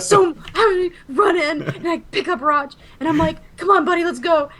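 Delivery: high, laughing through the words. Real, not acted. Mother retelling grabbing her son, laughing in a high voice. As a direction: laugh while you tell it.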